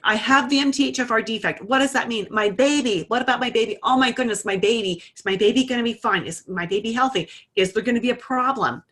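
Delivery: put-on client panicking over her baby in an email, frantic; imitating anxious client. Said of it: "But she was vibrating".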